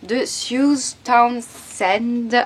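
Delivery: reading the English title "The Woman Who Went to Bed for a Year" in a French accent; a French reader tries the English title. Real, not acted. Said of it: "Avec mon accent pourri".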